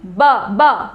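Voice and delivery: "ब, ब" as two separate short syllables; consonant sound demo. Shown as a demonstration. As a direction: sound out "ब", lips closing each time. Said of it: "जब हम consonant को बोलते हैं". ("ब, ब" अलग-अलग, होंठ बंद करके)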